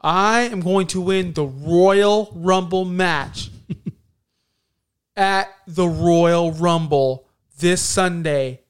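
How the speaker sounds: slow, loud stilted announcement; robotic promo voice. Retold or imitated. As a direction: read it like a corporate script. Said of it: "It's so bad".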